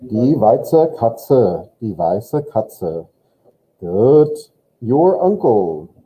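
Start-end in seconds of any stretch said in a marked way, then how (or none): 0.0-3.1 slow teacher model. Shown as a demonstration. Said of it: "The white cat".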